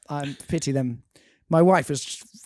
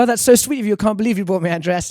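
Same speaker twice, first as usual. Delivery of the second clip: higher, louder imitation of a touched wife; delighted wife; 6 semitones higher, 4 dB louder, faster than usual. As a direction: gush like a wife thanking her husband.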